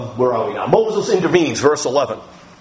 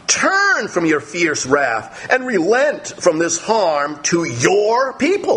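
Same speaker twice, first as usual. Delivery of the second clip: slow, tearful plea; pleading; 4 semitones higher, slower than usual. Acted. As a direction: beg God to relent, near tears. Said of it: "Then Moses pleaded".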